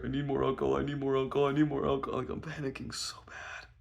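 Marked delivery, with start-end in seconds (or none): 0.0-2.2 mock scream, only slightly raised; retold frantic scream. Screaming to friend for drinks, understated frantic. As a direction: repeat it in an insistent, contained mock scream. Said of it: "I'm screaming to her".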